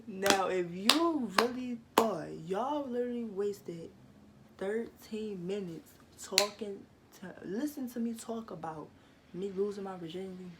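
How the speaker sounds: loud teasing at the viewers; loud mocking. Real, not acted. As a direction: call them out loudly, mocking. Mocking viewers who believed.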